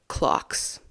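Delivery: secretive whispered clocks. Acted. Teasing hint to viewers.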